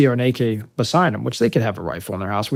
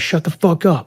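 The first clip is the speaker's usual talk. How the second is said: louder, higher angry cutoff; retold angry snap; 6 semitones higher, 5 dB louder than usual. Marine silencing a screaming kid, retold angry snap.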